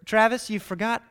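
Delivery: scolding teacher. Retold or imitated. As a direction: scold the forgetful kid. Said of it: "students like me".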